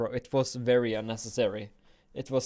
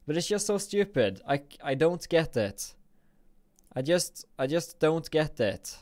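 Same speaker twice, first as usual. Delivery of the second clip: raised pitch, baffled frustration; exasperated complaint; 3 semitones higher than usual. Real, not acted. Streamer complaining about the online gift, exasperated. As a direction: complain in disbelief at the game.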